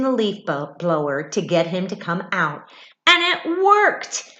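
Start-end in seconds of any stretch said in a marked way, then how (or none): 3.1-4.3 higher, louder, slow triumph; joyful storybook climax; triumphant. A narrator's reading. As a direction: announce the win proudly. Happy climax.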